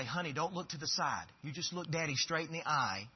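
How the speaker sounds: put-on soft, patient plea to a child; a dad quietly asking his child to be honest; gentle fatherly coaxing. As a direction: coax your child softly. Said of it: "I say".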